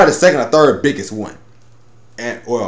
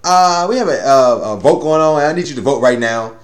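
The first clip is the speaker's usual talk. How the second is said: sweet voice. Retold or imitated.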